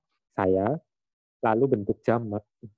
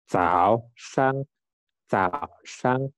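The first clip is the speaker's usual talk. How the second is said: 早上 with 早 dipping in third tone; much slower than usual. Shown as a demonstration. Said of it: "Nadanya ketiga".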